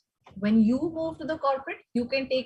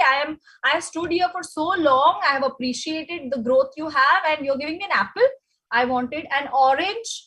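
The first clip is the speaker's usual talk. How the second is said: mock angry complaint. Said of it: "Now you're furious".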